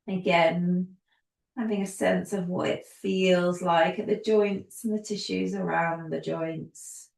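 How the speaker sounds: calm yoga teacher guiding, unhurried pauses; easy, soothing class-leading voice; guided yoga instruction. Real, not acted. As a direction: lead them gently through each movement, leaving space. Guides gentle movement with long pauses.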